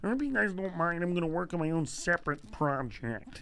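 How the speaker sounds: lightly put-on teacher voice; a touch of teacher mimicry; art teacher impression. Teacher excuses himself to his students, lightly imitated voice. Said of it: "And Mister Warren says".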